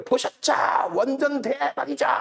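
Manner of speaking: mock the show-off trader gloating; mocking boastful liars. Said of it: "그리고 돌리면 뭐라 그래?".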